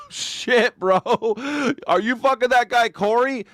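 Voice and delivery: a dude-bro blurting it out. Retold or imitated. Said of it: "mocking congress question".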